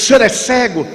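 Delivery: high, startled question; surprised stranger. Retold or imitated. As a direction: stranger learning the speaker is blind, high and surprised.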